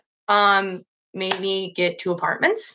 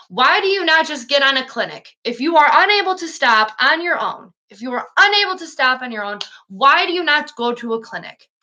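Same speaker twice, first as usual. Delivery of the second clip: pleading with a friend; 5 semitones higher than usual. Retold or imitated. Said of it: "I tell him all the time".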